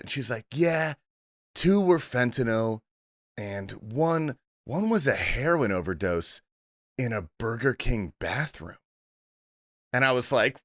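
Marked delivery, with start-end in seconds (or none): 0.5-8.8 lightly voiced old New Jersey aunt; a hint of old Jersey Italian aunt; New Jersey accent. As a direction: retell it in a mild Jersey accent, pausing between phrases. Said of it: "I'm gonna do the accent".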